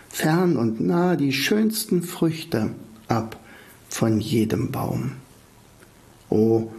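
slow poem reading with long pauses; poem recitation. Acted. Podcaster reciting a remembered autumn poem to listeners, slow recitation. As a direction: recite it line by line, unhurried, letting each phrase settle.

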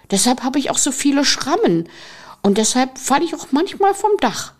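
put-on a fearless kid bragging about his scrapes; cheerful little boy. The boy answering Fear, lightly voiced as a bold little kid.

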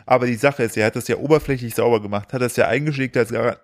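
something stuck in throat; talking with a tickle in the throat; frog in throat. Real, not acted. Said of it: "ich hab irgendwas im Hals".

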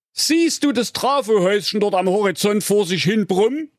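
high, fast cheeky voice; cheeky hero voice. Acted. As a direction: rattle it off cheekily. Lars mocks the ninja.

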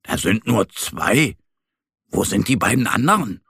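kleiner Bär, leicht verwundert; wundernder Bär. Acted. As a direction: frag dich wie ein Bärchen, was los ist. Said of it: "wundert sich Mo". (verwunderter kleiner Bär)

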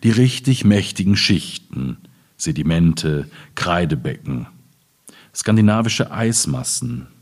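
slow, measured reading of a prose poem; literary reading. Acted. Closing the talk with a reading on soil memory, measured literary reading.

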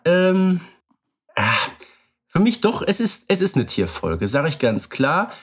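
normal talking voice

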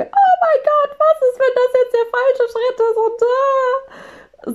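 very high, loud squeal of panic; panicked inner voice. Retold or imitated. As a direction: shriek it like sudden alarm.

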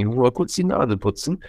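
stuffy, nasal voice. Real, not acted. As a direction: talk through a blocked nose. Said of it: "nicht, dass ich hier so nasal klinge".

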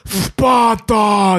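Sparta said with a heavy lisp on the s. Retold or imitated. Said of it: "Der lispelt da mega in der Szene".

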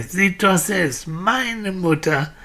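put-on boy crying out. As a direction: urge them earnestly to look. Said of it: "rief der Junge". (Junge, der eindringlich beteuert)

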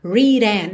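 "written" with E said fully; over-careful "written"; overdone. Shown as a demonstration. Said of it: "Você não faz questão de dizer written". ("written" com E pronunciado)

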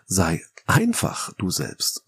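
slow phrase with "einfach" set apart and emphasised; stress on "einfach". Shown as a demonstration. Podcaster picking apart a stage tip, stress on "einfach". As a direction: lean on the word "einfach", taking your time. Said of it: "besonders schwierig ist dabei natürlich das einfach".

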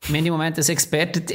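words catching in the throat; choking on a drink mid-sentence; swallowed wrong. Real, not acted. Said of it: "ja, verschluckt".

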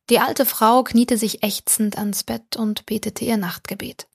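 ordinary delivery, nothing marked

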